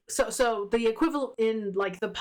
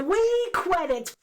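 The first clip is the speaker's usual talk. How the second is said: slow, higher, mock-customer voice; mock order; 8 semitones higher, much slower than usual. Friend pretends to buy credits, slow mock shopper voice. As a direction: order credits like at a shop counter, drawn out.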